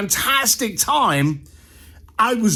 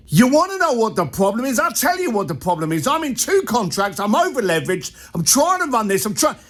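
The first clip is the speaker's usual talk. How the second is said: exasperated outburst; unloading frustration; 4 semitones higher than usual. Retold or imitated. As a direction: let it all pour out at once. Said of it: "and I unloaded".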